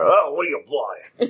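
lightly voiced Spanish-accented villager, slow; a slow hint of the Resident Evil villager taunting; mocking the player in a faint villager accent. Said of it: "doing the guy from Resident Evil four".

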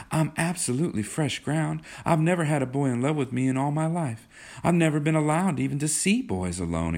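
put-on high-pitched girlish pleading; coaxing young Kismine. A narrator's reading. Kismine coaxes John to be nice, high and girlish. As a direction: coax him sweetly in a high voice.

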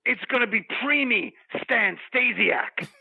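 lightly played wrestler hype voice; wrestling promo. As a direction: hype up the roster. Promo character lists wrestlers.

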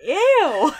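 high, loud grossed-out cry; loud disgusted ew. Real, not acted. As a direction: shriek it in disgust. Reacting to gross sound.

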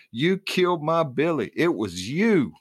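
high, raw scream of grief and rage. A narrator's reading. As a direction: scream it at the woman who took him. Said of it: "as she screamed".

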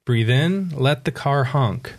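slow, calm breathing cues; guided meditation. Shown as a demonstration. Author leading a breath over a honking car, meditative. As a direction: leave space for each breath. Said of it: "a little bit of a guided meditation".

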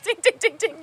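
high, quick dinging; right-answer bell. Retold or imitated. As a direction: chime it like a game-show bell.

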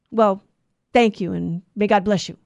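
put-on grudging old man's thanks, a touch gruff. Old man trying out a blessing, mildly gruff. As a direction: imitate a reluctant, gruff blessing. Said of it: "kinda gruffly".

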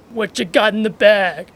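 lightly voiced catcaller; imitating a sleazy catcall. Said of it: "if you do the voice".

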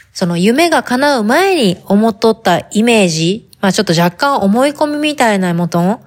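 chatty talk in put-on Hakata dialect. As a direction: chat casually, leaning into Hakata dialect. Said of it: "博多弁で喋ってみようんやけど". (博多弁での気さくな語り)

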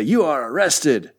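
slow, badly faked Latverian accent; mock Latverian accent, drawn out. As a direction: attempt a made-up Latverian soldier accent. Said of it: "I don't know what the Latvian accent is".

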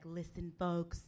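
slow, lightly mimicked politician voice; a hint of a boastful politician; mocking the president. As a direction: ham up a pompous announcement, slowly. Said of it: "he's just like".

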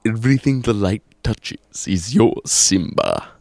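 booming lion king father; James Earl Jones impression. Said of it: "if you're going to do, uh, James Earl Jones".

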